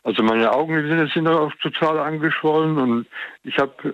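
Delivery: nasal, congested speech; a stuffy nose colouring every word; blocked nose. Real, not acted. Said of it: "ich spreche nasal". (spricht nasal, verschnupft)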